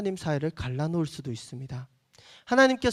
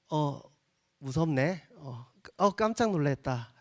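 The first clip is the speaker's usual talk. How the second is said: 무덤덤한 반응; 2 semitones lower, slower than usual. Retold or imitated. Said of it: "이렇게".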